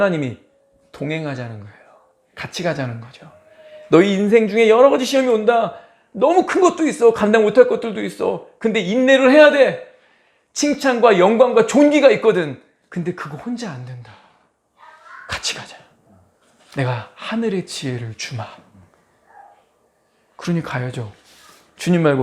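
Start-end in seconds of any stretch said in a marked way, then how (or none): 3.9-12.6 loud, high-pitched preaching cry; urgent exhortation. Acted. God urging believers to endure coming trials, forceful. 12.9-18.5 suddenly soft, lowered divine promise; tender reassurance. Acted. God promising wisdom to the believer, softly reassuring.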